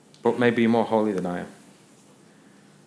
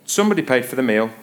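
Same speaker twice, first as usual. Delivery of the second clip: quick, casual waiter's notice; imitated indifferent server, brisk and understated; offhand server; faster than usual. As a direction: toss it out without any ceremony. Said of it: "the server comes out and just says".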